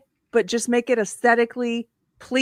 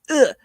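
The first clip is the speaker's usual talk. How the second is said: short grunt of revulsion; gut-level "ugh" of distaste; disgusted ugh; 5 semitones higher than usual. Acted. Host reacting to an ugly boxy house, disgusted. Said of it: "your gut is like".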